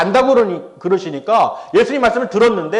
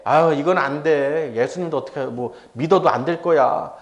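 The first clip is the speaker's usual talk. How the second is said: defeatist; 5 semitones lower, 4 dB quieter than usual. Retold or imitated. A doubting believer talking to oneself, resigned and defeatist. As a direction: give up wearily, voice dropped low.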